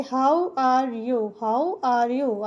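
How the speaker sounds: slow, careful teacher reading; drawn-out demo phrase; slow model sentence. Shown as a demonstration. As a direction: say it slowly so students follow. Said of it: "तो हम कहेंगे".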